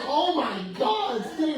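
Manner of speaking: slow, high, loud oh my God; delighted exclaim. Retold or imitated. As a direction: shriek with delight at his name. Client's delighted reaction, retold.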